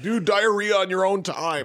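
high, loud scolding shout; mock instructor yell. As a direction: yell back with no sympathy, imitating an instructor. Mimics instructor yelling back.

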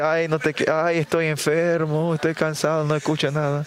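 lightly whined sick excuses; mock weary complaint. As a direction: act put-upon and too tired to listen. Mimics ailing, tired excuses. (queja cansada y fingida de enfermo)

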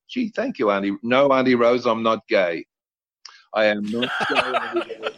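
mock-grateful then insisting; exasperated protest. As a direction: protest to the aunt, rising in pitch. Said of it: "And I went".

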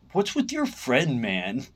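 put-on drawn-out German-accented grumble. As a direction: imitate a put-out German friend. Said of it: "he's got that German accent".

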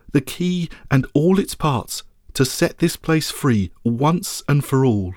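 slow, stately knighting words; solemn regal knighting. Acted. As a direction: dub them knights, slow and grand. Lady knights them.

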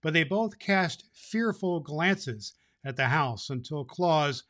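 lively storybook read-aloud; story narration. A narrator's reading. Santa reading the chapter to boys and girls, storytelling voice. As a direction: read it like a bedtime story to a crowd of kids.

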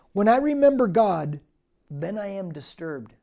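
loud, declaimed verse that drops at the end; forceful scripture reading. Acted. Preacher reading the psalm verse aloud to the church, loud and declaiming. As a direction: proclaim the verse to the room.

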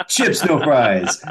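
slow, loud counterman correction; diner cook insisting. Retold or imitated. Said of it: "And he goes".

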